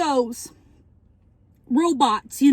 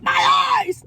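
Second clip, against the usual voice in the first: mock cry of pain; 9 semitones higher than usual. Blinded character cries out.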